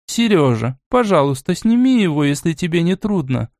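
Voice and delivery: a mild, apologetic request. Acted. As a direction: ask politely, a little sorry to trouble him. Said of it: "извиняющим тоном".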